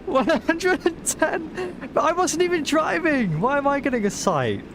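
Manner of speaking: high, outraged, slowed; indignant disbelief. Real, not acted. Mock outrage at ticket.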